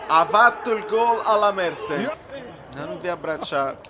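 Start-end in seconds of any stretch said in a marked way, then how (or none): 0.1-2.1 loud, thrilled goal call; excited. Real, not acted. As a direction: shout it out in delight.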